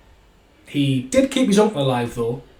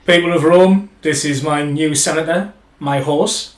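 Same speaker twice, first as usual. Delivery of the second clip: roman orator; 2 semitones higher, 5 dB louder than usual. Retold or imitated. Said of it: "Caligula speech".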